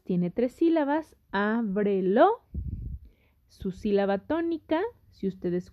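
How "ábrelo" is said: "Ábrelo" slowly, broken into á-bre-lo; syllable by syllable. Shown as a demonstration. Teacher showing the word has three syllables, syllable by syllable. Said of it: "Porque separamos la palabra en sílabas".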